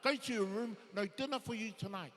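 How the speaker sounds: loud scolding, rising in pitch; fed-up mum. Acted. John's mum sending him to his room, fed up. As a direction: lay down the punishment loudly and firmly. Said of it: "but his mum said".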